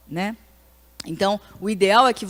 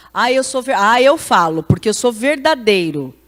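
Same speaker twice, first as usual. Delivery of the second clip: louder, mocking take on the boastful line; mocking self-righteous; 6 dB louder than usual. Preacher mocking blunt people, louder and scornful. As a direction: parody someone proud of being blunt. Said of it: "gente que fala isso".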